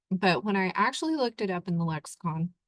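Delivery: burp slipping out mid sentence. Real, not acted. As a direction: talk through a small burp. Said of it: "now I'm burping".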